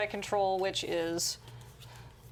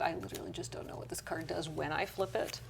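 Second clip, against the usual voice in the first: whispered aside; whispering; 7 dB quieter than usual. Real, not acted. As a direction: mutter it under your breath. Aside about an unknown card.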